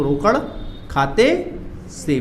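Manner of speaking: खाते से drawn out syllable by syllable; very slow dictation. Shown as a demonstration. Teacher dictating the full answer, very slow. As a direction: stretch खाते से out for the class to copy. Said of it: "पूरा देखो".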